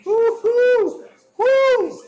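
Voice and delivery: high loud whoop through the sting; pained whoop. Real, not acted. Man in the shower whooping at the sting of road rash. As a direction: yelp it out high and loud as water hits the rash.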